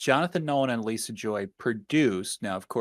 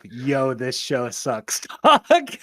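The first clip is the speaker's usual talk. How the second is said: mock quote; much slower than usual. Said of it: "you were very quick on the train of".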